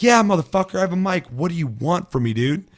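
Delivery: high, loud irritated shouting; loud hammed-up rage; mock angry yell. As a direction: yell back at the annoying teammate. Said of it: "I'm like".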